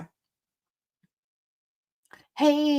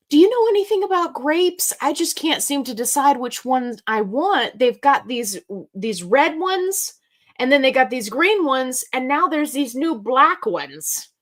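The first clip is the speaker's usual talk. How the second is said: put-on old lady voice; 4 semitones higher, 3 dB louder than usual. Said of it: "and she was like".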